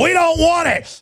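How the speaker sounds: high mock vampire refusal; mocking undead vampire. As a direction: squeak it out like a smug vampire. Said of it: "And they go".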